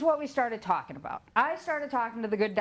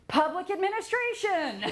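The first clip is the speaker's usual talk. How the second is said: laughing; 10 semitones higher than usual. Real, not acted. Laughs at his own choice.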